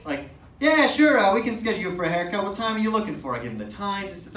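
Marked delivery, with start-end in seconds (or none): 0.6-3.3 chirpy receptionist. Retold or imitated. Barber on phone, eager.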